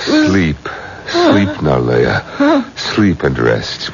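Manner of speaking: soothing. Acted. Elder soothes the bride.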